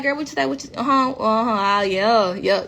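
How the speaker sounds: put-on loose, run-together chat with a girlfriend; relaxed homegirl talk. Chatting with a friend, forgetting the cameras, relaxed. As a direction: let the words slur casually into uh-huhs. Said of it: "I'm relaxed".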